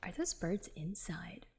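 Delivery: hushed whispered question. Real, not acted. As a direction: whisper it like a secret. Player whispers an aside.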